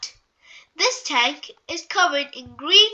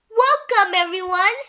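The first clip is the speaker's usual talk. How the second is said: cheerful welcome; 5 semitones higher, 6 dB louder than usual. Acted. Miss Rabbit greets visitors.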